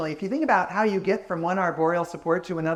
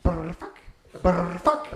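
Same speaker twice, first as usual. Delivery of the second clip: mock lemur calls; slower than usual. Shown as a demonstration. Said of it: "And they go".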